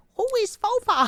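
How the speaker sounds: put-on very high, squeaky grandma voice. Retelling how people reacted to a viral post, in a granny voice. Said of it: "Why do you sound like a granny?".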